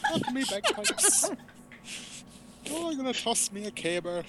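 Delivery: high, laughing mock Scottish accent that slides Irish; a clumsy Scottish accent that sounds like a leprechaun; bad Scottish accent. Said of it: "my Scottish always turns into".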